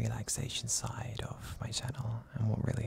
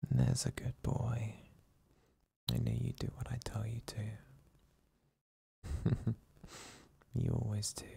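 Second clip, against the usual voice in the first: relaxed ASMR whisper. Acted. Boyfriend whispering his partner back to sleep, hushed and soothing. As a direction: lull him to sleep in a hushed, tender murmur. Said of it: "use a more relaxed and deep tone of voice".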